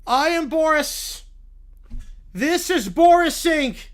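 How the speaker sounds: slow, stately dad voice; Boris voice. Acted. Caillou's father introducing himself, slow and grand. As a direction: announce yourself as the grand Boris.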